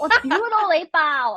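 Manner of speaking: giggling through the line; laughing mock dirty talk. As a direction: say it while laughing, half teasing. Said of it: "it'll be like".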